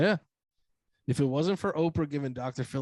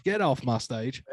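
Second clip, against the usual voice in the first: put-on slow, deliberate Southern-accent put-down; pompous, slow TV-host drawl with a Southern accent; Dr. Phil; slower than usual. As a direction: draw out each insult in a mock Southern accent. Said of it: "Doctor Phil kinda lose his shit in that accent".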